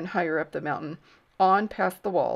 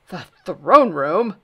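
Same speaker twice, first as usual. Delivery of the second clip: slow, loud alarmed question; the throne room, really?; 11 dB louder, slower than usual. Acted. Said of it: "shaking his head sadly".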